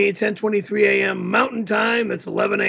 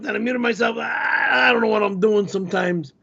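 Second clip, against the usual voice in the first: usual speaking voice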